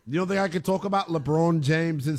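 put-on Canadian accent. Shown as a demonstration. Host proving to his doubting co-host he has it, Canadian accent. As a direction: show off a mock Canadian accent. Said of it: "You don't think that I have a Canadian accent?".

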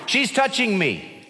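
put-on slow, high whine of a child in the back seat; whiny child. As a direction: whine like a bored kid. Child whining in car.

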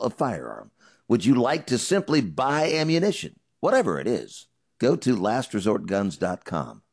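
punchy, loud sponsor read; emphatic host-read commercial; radio ad read. Acted. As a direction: sell it firmly, like a radio host's endorsement. Reads a sponsor ad.

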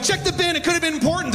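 high, lightly mocking wife voice; nagging wife. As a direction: impersonate the wife pestering him. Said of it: "My wife's always like".

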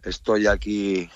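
halting and drained; exhausted. Real, not acted. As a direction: drag it out as if worn out. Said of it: "exhausto. Agotado".

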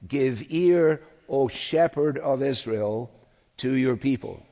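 quoted appeal, called out with restraint; crying out in prayer. Acted. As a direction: lift the opening as a psalmist's cry, then ease slightly. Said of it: "the psalmist cries out".

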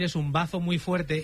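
"bazo" said slowly, where "bazo" means spleen; slow mocking repeat of "bazo"; quoting a slip. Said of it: "acabas de decir".

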